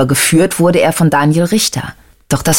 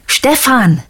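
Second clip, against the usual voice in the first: calling out high over a bad phone line; mock yell into phone; 8 semitones higher than usual. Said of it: "brüllte er". (gespielt gebrüllt, hoch, kaum lauter)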